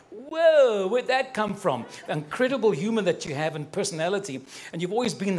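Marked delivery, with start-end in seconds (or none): 0.1-1.9 loud, high whoa of surprise; mock surprise. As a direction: caught off guard by a joke.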